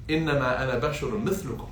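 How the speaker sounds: fast flowing recited Arabic; Quran recitation. Acted. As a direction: recite it in one smooth breath. Recites verse again.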